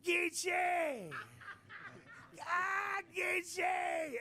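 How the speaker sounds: high ringing shout across the street; calling out. Retold or imitated. Big Chief hailing Geechee down the street, high shout. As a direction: call his name out big and joyful.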